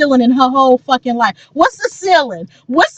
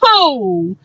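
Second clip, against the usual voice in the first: higher and faster, retold panic; frantic rush; 3 semitones higher than usual. Retelling scrambling for a Tidal account, high hurried panic. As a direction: panic like you'll miss the album. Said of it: "Bitch, I ran".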